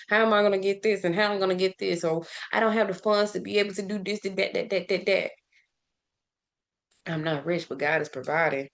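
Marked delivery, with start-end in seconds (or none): 0.1-2.0 fast, panicked rush of questions; flustered scrambling. Retold or imitated. Imagining a parent scrambling over a broken heater, in a fast mild panic. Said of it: "screaming and scrambling". 2.5-5.3 flustered worry. Retold or imitated. Imagining a parent short of funds for repairs, fast then fading. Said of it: "screaming and scrambling".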